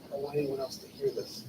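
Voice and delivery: secretive whisper. Retold or imitated. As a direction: keep it between the two of you. Secret told at a family dinner.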